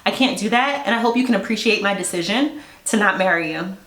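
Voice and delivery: imitating an emotionless breakup; no emotion. Bride jilting her groom at the altar, imitated without emotion. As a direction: deliver the refusal with nothing in it. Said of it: "Like, no emotion".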